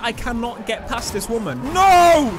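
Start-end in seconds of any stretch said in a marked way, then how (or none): 1.7-2.3 loud, high cry of no; high outburst of frustration; dismayed shout. Real, not acted. Race going wrong.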